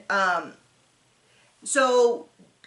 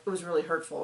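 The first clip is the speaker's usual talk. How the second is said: near tears; 6 semitones lower, 7 dB quieter, much faster than usual. Retold or imitated. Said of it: "practically in tears".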